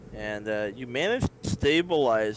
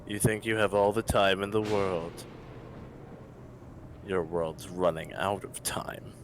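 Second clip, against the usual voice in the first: menacing dark god; 3 semitones lower than usual. Acted.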